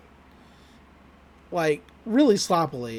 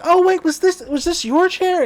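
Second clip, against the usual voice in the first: Gideon voice; 11 semitones higher, 5 dB louder than usual. Retold or imitated.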